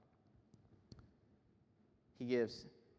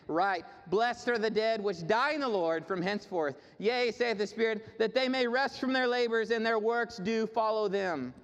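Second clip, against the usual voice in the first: raised, ringing scripture reading; declaimed scripture; 8 semitones higher, 6 dB louder than usual. Real, not acted. Preacher reading Revelation to the congregation, declaimed scripture. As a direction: proclaim the verse to the congregation.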